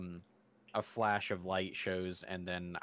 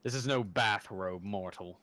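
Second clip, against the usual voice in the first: lightly voiced haughty deity; a touch of stern, measured grandeur; divine being. Divine being warning a mortal about his smite, mildly imperious. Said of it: "I did my best to make a divine".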